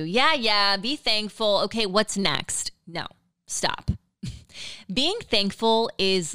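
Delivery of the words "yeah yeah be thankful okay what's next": dismissive. Retold or imitated. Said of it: "I've always thought it too".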